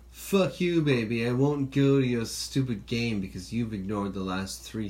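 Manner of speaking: mock tirade from an exhausted parent at a demanding baby; mock yell at the baby. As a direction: yell it like a parent at the end of their rope. Parent imagines cursing at baby.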